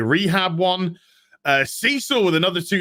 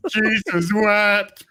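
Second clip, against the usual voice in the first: Pinhead voice; 4 semitones higher, much slower than usual. Acted. Hellraiser Pinhead line quoted.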